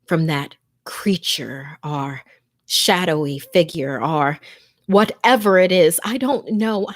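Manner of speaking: tense, hushed first-person horror narration; scary story told to listeners, fearful; horror story reading. A narrator's reading. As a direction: read it like a frightened victim hiding in a closet.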